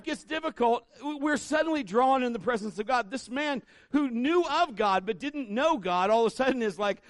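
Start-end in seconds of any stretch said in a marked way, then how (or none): none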